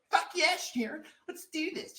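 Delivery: fired-up yes. Retold or imitated. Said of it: "I'm like".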